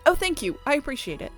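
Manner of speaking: high, polite thanks, settling slightly; grateful relief. Acted. Character thanking someone for accepting an apology, grateful. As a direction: lift the voice in sweet gratitude.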